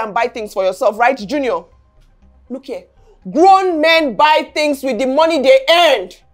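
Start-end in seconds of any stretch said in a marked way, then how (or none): 3.3-6.2 heated lecture rising in pitch; shouting scolding. Acted. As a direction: build from stern lecture to outraged demand. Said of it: "Why are you shouting now".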